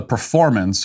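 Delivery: performance lifted and weighted; stress on performance. Real, not acted. Commentator stressing performance with irony, lifted. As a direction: lean on performance with sarcasm. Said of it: "and I emphasize the word performance".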